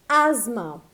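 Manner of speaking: ASTHMA as "AZ-ma", th silent; correct pronunciation. Shown as a demonstration. Teacher introduces the next word, asthma as "az-ma". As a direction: say asthma in two syllables with a z. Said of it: "So it is pronounced as asthma".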